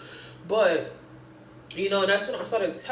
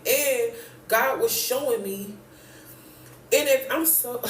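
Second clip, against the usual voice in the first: breathless, gasping between words; out of breath; slower than usual. Real, not acted. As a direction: talk while catching your breath. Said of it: "I'm so out of breath".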